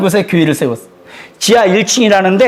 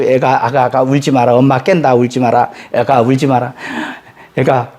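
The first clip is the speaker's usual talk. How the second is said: put-on hushing a baby; 6 semitones lower than usual. Father before dawn prayer soothes his crying baby, low and gentle. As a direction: coax the baby back to sleep, gently.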